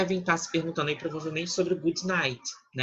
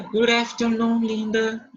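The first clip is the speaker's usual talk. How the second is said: slow clear model; 7 semitones higher, 7 dB louder, slower than usual. Shown as a demonstration. Teacher models greeting slowly.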